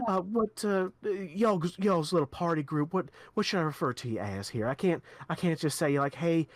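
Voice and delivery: a hint of a chatty official; lightly voiced quest giver. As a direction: talkative noblewoman, lightly voiced.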